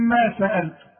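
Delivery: ما سألتم with the two meems kept apart; clear double meem. Shown as a demonstration. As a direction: say ما سألتم showing both meems distinctly. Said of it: "ميم ساكنة وبعدها ميم متحركة".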